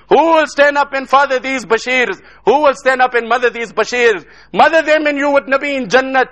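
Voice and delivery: rally the brothers with insistent questions; retold rousing exhortation; impassioned appeal. Retelling his rousing appeal to brothers.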